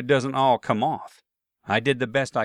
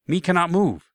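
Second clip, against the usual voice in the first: imitating an Asian accent, higher and louder; mock broken-English Asian accent, pitched up; 6 semitones higher, 4 dB louder than usual. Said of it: "I thought in an Asian accent".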